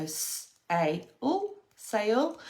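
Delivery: "s" whispered, then "ai", then "sail" blended; sounding out. Shown as a demonstration. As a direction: segment "sail". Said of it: "sound out".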